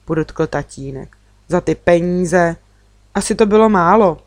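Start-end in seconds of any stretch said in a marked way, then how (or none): 3.1-4.2 drze. Acted. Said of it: "podotkla jsem drze".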